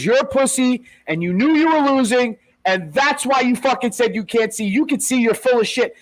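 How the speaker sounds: retold tirade, mildly heated; mock angry accusation. Acted quarrel between two fighters.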